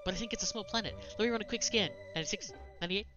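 a hint of an eager ship computer. Voices ship AI dialogue.

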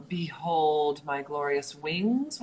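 slow grandiose boast; pompous vain hero. Acted. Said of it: "What's my wings line?".

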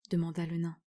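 plain reading voice

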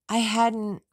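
a quick whispered denial. Acted. Rachel whispers her denial to Tom on the phone. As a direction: breathe the denial almost to herself.

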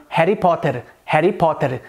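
"Harry Potter" with rolled Indian Rs; Indian-accented example sentence; Indian English accent. Shown as a demonstration. Teacher demonstrating the R for learners, Indian accent. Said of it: "Já no inglês indiano".

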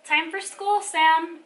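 loud, high mom's call. A narrator's reading. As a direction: call the child to get going. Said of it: "Mom called".

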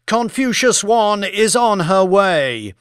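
high-pitched on-air reporter; TV news reporter. Acted. Idris Madaki reports from the Indian Ocean, news reporter voice.

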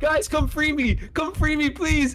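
high pleading call; calling for help. Real, not acted. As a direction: yell for the guys to come. Trapped by monster, calls friends.

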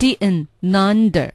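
"didn't, nunder" slowly, no t; t dropped. Shown as a demonstration. Learner practising the linking, "nunder" without t. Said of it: "这特的音对了".

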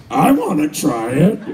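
put-on low, gruff old father voice; old dad. Strict Catholic father to his son, low and deadpan. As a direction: drop low like a stern old dad giving in.

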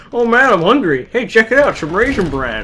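high, loud hungry musing; hungry inner voice. Retold or imitated. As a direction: act out your hungry thoughts. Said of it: "What the fuck are you thinking?".

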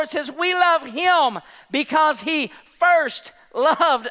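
high, driving sermon delivery; impassioned preaching. Acted. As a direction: press every phrase home to the congregation. Preaching with rising force.

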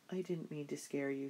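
put-on tired girl apologizing to her mother, mumbled; mumbled apology. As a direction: trail it off like a drowsy child. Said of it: "Suzette mumbled".

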